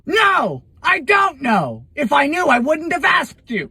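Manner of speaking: loud, high, exasperated shouting; angry outburst. Acted. Snapping at a friend who just said "you know", loud. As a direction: blow up at him.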